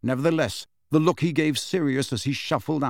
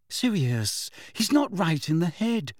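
pleading; 7 semitones higher than usual. A narrator's reading. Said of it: "said Hermione pleadingly".

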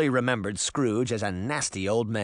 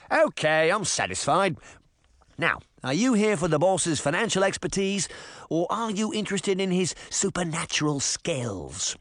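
put-on Tim, English boy; 3 semitones higher than usual. Tim's English voice.

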